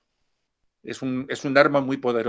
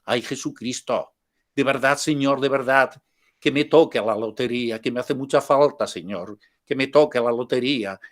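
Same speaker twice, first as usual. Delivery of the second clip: put-on Catalan accent. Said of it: "con acento catalán". (leve acento catalán, rezo lento y suplicante)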